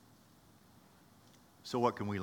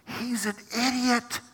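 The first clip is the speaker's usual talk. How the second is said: scoffing disciple; 9 semitones higher than usual. Acted. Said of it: "John looks over at James and goes".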